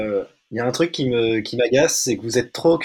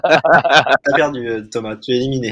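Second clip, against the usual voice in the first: animateur de jeu; 2 semitones lower than usual. Acted. Annonce l'élimination du joueur.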